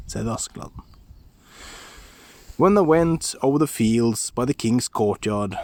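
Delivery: ordinary delivery, nothing marked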